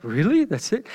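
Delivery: Really? then That's it rising in disbelief; incredulous. Retold or imitated. Reader reacting to the short Bible account, incredulous. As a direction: ask That's it as if you can't believe it. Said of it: "You're like".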